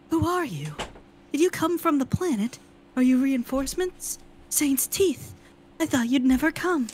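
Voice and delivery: lightly voiced frightened young woman; a hint of a scared soldier; pale young woman voice.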